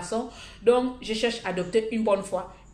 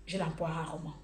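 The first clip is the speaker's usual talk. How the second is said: ordinary delivery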